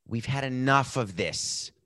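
slow unvoiced whisper; slow whispered aside. Real, not acted. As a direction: hush it like an aside.

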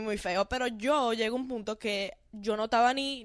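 ordinary talk

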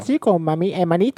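put-on Spanish accent. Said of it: "Sotaque espanhol".

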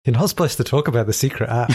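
speaking with a numb tongue. Real, not acted. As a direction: talk like half your tongue is numb. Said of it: "with half my tongue still numb from the dentist".

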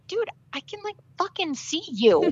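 high-pitched incredulous quote; retold exasperation. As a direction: act out being fed up with someone ignoring you. Retold exasperation at being ignored.

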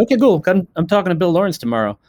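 high excited casual reveal; excited announcement. Retold or imitated. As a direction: drop a bombshell casually but pumped. Retold excited news from Jason.

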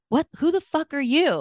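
high, indignant yell; retold yell. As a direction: demand it like confronting an intruder. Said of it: "Like, I yelled at him".

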